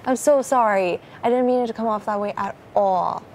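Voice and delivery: real upset apology, pushing through tears; tearful apology. Real, not acted. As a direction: plead sorry on the verge of crying. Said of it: "Are you still crying?".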